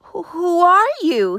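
high, stammering small voice; timid question. Acted. Juniper asking the voice who it is, timid and high. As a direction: ask shyly and a little afraid. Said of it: "he asked".

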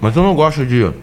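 talking with a mouth full of food; words through a mouthful of food. Real, not acted. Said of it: "pode falar de boca cheia normal".

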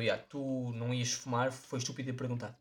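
lightly voiced guy shrugging it off; imitating the stranger. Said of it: "e percebeu".

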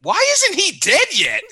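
high squeaky disbelieving question; imitating a friend's high-pitched outrage; incredulous disbelief. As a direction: shoot way up in pitch, baffled he survived. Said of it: "'cause Natalie's like".

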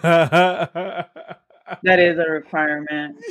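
slow, laughing repeat. Retold or imitated. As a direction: savor it through laughter. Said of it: "And I was like".

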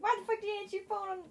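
retold parental scolding. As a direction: imitate parents scolding in disbelief. Parents' scolding reaction, acted.

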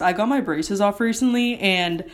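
talking with retainers in; a faint lisp from new retainers; slight lisp. Real, not acted. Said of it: "sorry if I have a lisp".

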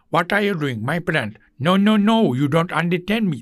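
imitating an Indian English speaker; light mock Indian accent, friendly. Teacher mimics an Indian speaking English, in an Indian accent. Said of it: "Hintli konuşursa".

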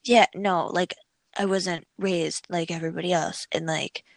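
lightly voiced sad little fairy; a hint of a mopey fairy; emo fairy voice. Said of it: "What is this voice?".

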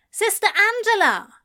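high, loud call across a yard. A narrator's reading. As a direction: call the name out from afar. Nun calling from the door.

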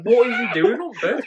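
high, loud question through laughter; laughing incredulity. Real, not acted. Telling a friend about his dad on bed, laughing. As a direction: barely hold the laugh in while asking.

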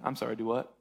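low, deadpan disbelief; taken-aback dad. Acted. Father answering son's early inheritance request, low deadpan disbelief. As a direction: lightly play a dad who can't believe the request.

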